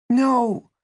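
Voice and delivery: very high, forceful no; anguished refusal. A narrator's reading. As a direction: cry out a refusal at the top of your pitch. Angie refuses in tears.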